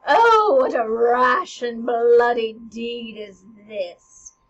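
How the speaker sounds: loud, slow theatrical lament; distraught queen. Acted. Queen aghast at the bloody deed, loud dramatic wail. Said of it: "The queen goes".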